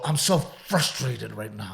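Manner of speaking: a lightly voiced toddler, slowed down. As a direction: play a two-year-old who is mildly fed up. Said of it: "How many two-year-olds do you know go".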